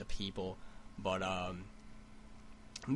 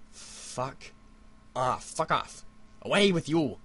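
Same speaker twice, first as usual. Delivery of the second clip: higher, louder at a bug; swatting a bug; 4 semitones higher, 4 dB louder, much slower than usual. Real, not acted. Vlogger yells at a bug on his screen, louder and higher. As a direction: chase the bug off, raised.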